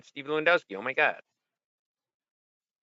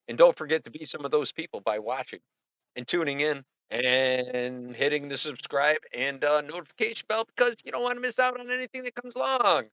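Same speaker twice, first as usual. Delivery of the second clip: professional announcer; 4 semitones higher than usual. Shown as a demonstration. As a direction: read it like a channel outro ad. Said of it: "how'd that sound? Kinda professional".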